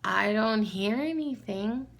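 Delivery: slow, lightly imitated child with rising end; Lila. Niece listening for the noise, childlike puzzlement. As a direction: draw it out like a puzzled little girl. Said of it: "And she's like".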